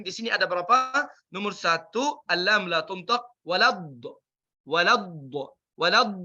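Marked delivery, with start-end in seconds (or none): 3.5-6.1 walad with a sharp final d; short stop on d; clipped walad. Shown as a demonstration. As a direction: bite off walad. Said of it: "Bukan wala".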